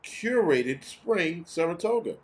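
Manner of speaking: lightly hammed-up commercial voice; mock ad read. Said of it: "They said".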